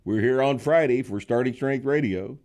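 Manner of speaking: loud, high-pitched podcast host intro; show-opening announcement. Real, not acted. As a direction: announce the show to the whole audience. Opens the show.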